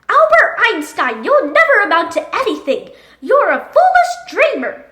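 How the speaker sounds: a teacher dressing down a pupil; harsh classroom scolding; stern scolding. Acted.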